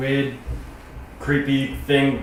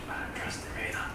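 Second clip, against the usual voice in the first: stage whisper; 2 semitones lower, 16 dB quieter, much faster than usual. Acted. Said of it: "Stage whispering".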